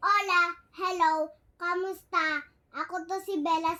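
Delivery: bright high cute voice, quick intro. Real, not acted. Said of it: "naging cute yung boses ko".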